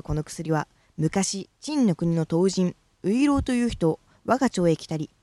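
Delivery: measured, declaiming recital of a classical speech piece; formal recitation. Acted. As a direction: declaim it like a stage elocution exercise. Recites the Uirouri elocution piece.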